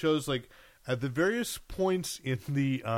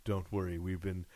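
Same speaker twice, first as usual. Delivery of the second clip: British government official; 6 semitones lower, 7 dB quieter than usual. Acted. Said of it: "And they go".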